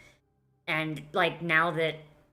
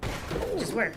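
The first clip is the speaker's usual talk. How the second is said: slow, slightly higher mock presenter; Todd Howard impression; 4 semitones higher, slower than usual. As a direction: drawl it like a keynote pitch. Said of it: "Todd Howard's like".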